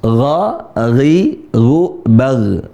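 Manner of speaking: "Gha, ghi, gu, bag" with throaty gargled gh; huruf ghain bergetar. Shown as a demonstration. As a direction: rasp each gh at the back of the throat. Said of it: "Ada g, itu". ("Gha, ghi, gu, bag" dengan bunyi garah-garah)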